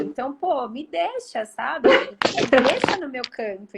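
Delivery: playful fed-up complaint; exasperated plea. Acted. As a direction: push back, pitch jumping up. Retold protest against others' expectations.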